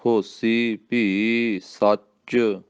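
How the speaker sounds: ਹੋਸੀ clipped, ਭੀ apart, ਸੱਚ tight, slow; ਥੋੜ੍ਹਾ ਕੱਸ ਕੇ. Shown as a demonstration. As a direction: press ਹੋਸੀ lightly, slow. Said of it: "ਥੋੜ੍ਹਾ ਜਿਹਾ ਕੱਸ ਕੇ".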